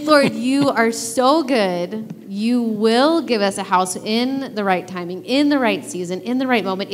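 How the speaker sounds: slow, reverent prayer; prayerful. Retold or imitated. Speaker praying to the Lord, reverent and slow. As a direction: pray it slowly and sincerely.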